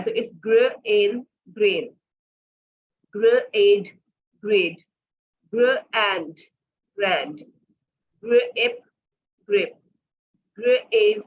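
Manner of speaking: ग्र एंड split, then ग्रैंड blended; phonics blending demo. Shown as a demonstration. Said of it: "AI मैंने पीछे आपको बताया". (ग्र एंड, फिर ग्रैंड, जोड़कर)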